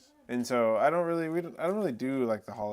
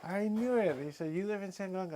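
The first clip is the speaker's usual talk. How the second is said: much higher, thrilled recognition; excited stranger; 8 semitones higher than usual. Retold or imitated. The stranger recognizing him from TV, thrilled. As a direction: squeal it like spotting a celebrity.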